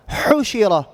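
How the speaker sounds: HUshira, opening HU emphasised; stress on first syllable. Shown as a demonstration. Teacher gives an example to copy, HUshira stressed up front. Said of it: "pronouncing it like this".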